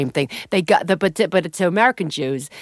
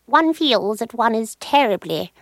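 slow, drawn-out lightly royal voice; a hint of a plummy royal musing; 3 semitones higher, slower than usual. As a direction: muse grandly like a queen. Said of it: "The royal character that I do".

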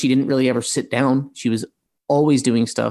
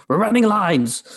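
high-pitched mock yell; imitated yell; 8 semitones higher than usual. Actor retelling a co-star announcing a line run, mock yell. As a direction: call it out like an irked castmate.

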